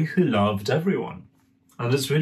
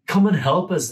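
put-on girls calling; 6 semitones higher, 4 dB louder than usual. Girls calling Dimitri over.

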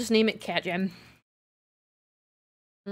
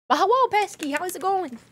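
higher, louder cheerful hello; bright greeting; 10 semitones higher, 3 dB louder than usual. Real, not acted. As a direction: greet them warmly. Greeting viewer.

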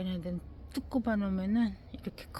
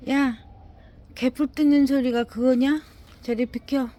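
loud, higher indignant shout; scolding the dog; 5 semitones higher, 10 dB louder than usual. Real, not acted. Owner yelling at her dog to get away, loud indignant scolding. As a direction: chase the dog off with a yell.

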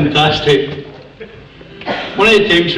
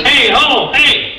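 very high parrot calls; squawking parrot; 11 semitones higher, much slower than usual. Acted. Parrot calling to a woman passing the pet shop, squawky. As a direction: squawk out to catch a passer-by. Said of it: "The parrot goes".

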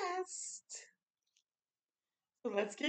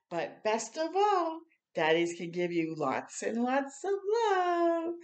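gentle storybook reading voice; reading to children. Acted. Reading picture book aloud.

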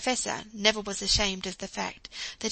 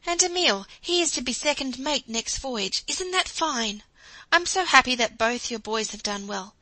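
a hint of a proud, tender wife, higher and louder; lightly voiced happy wife; 4 semitones higher, 5 dB louder than usual. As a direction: gush with pride, then soften. Jo proudly thanks her husband.

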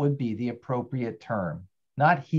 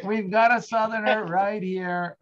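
high-pitched, excited announcement; delighted exclamation; 7 semitones higher than usual. Real, not acted. Teacher telling the class who is here, excited. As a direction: point out the find with delight.

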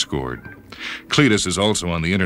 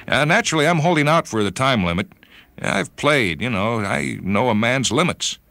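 put-on much higher, hesitant old friend; Cletus; 6 semitones higher than usual. Friend confessing committee news to John, higher and halting. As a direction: confide the bad news haltingly.

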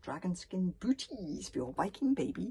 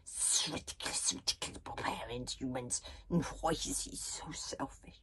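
hushed, hissy little dragon grumble; muffled waffling; 5 semitones lower, 4 dB quieter than usual. A narrator's reading. Toothless complains from underneath the sheet, muffled. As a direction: grumble low and half-voiced, as if under bedclothes. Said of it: "waffling up in a muffled way".

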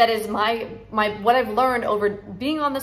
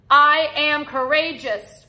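slow, higher and louder, every word weighted; slow proud affirmation; 4 semitones higher, 3 dB louder, slower than usual. Shown as a demonstration. Coach leading viewers to feel it in their cells, slow and strong. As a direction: declare "I am courageous" slowly so the body feels it. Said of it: "Say it so your cells".

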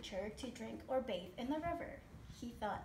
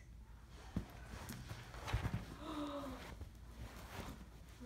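soft, breath-only gasp of suspense; acted gasp; 3 semitones higher, 8 dB quieter than usual. Creatures stare at the mouse, hushed gasp. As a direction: gasp quietly for the onlookers.

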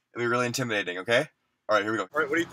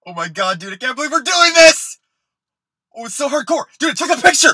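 high, loud, excited yelling; thrilled yelling; 9 semitones higher, 9 dB louder than usual. Acted. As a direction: gush with adrenaline after the stunt. Fleeing after snapping the picture.

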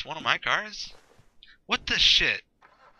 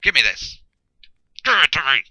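demanding; 3 semitones higher, 10 dB louder, faster than usual. Real, not acted. Grabbing a drink in game.

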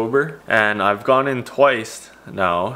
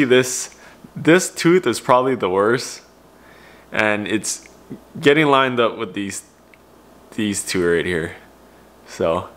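lip held open by finger; talking with finger in mouth; finger pulling lip down. Real, not acted. Seen 0: Finger pulls lower lip down to show braces while speaking.

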